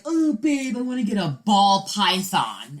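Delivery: mock an eager boyfriend's pitch; playful imitation of a pleading partner; imitated ex-boyfriend. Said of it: "He was like".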